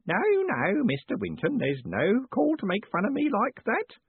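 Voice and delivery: high, nervous character voice; nervous, drawn-out pleading in a high voice. A narrator's reading. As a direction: protest anxiously, pitched right up. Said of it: "said Grote nervously".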